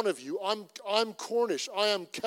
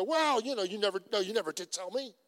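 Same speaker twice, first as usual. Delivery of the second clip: defensive comeback; faster than usual. Retold or imitated. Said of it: "enter into that emotion and go".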